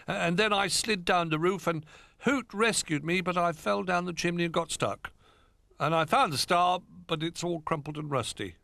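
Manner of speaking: high little bear voice; cub explaining. A narrator's reading. Little Bear tells the toys, high voice. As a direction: tumble through the story.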